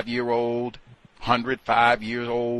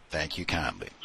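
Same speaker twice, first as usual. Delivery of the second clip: firm dismissal; 5 semitones lower, 6 dB quieter than usual. Shown as a demonstration. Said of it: "not interested".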